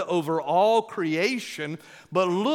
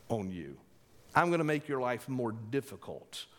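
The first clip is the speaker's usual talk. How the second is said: proud tyrant, rising to a louder boast; arrogant Pharaoh; 3 dB louder than usual. Retold or imitated. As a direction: play the king asserting his authority. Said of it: "He's saying".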